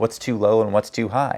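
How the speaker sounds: plain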